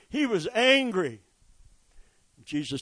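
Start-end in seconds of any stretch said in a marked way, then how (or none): 0.1-1.2 He was angry, pushed up and out; repeated line lifted to a near shout; louder, higher insistence. Shown as a demonstration. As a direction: drive it home.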